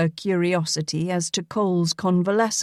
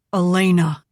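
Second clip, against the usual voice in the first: loud startled cry of her name; surprised recognition; 5 dB louder than usual. A narrator's reading. Cole recognizing the woman he remembers, shocked.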